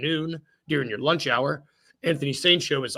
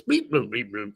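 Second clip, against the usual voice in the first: alien voice; 4 semitones lower than usual. Pretend. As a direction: beep boop robot alien voice. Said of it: "I'm gonna do the alien voice".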